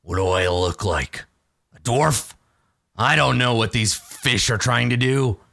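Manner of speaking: a touch of scornful orc; lightly voiced surly orc. Orc rebuffs question about digging, mildly scornful. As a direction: lightly play an affronted orc.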